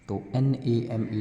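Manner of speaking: letters spelled slowly, one by one; teacher spelling letter by letter; spelling out a word. Shown as a demonstration. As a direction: spell N-A-M-E out for the class. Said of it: "नेम मतलब नाम".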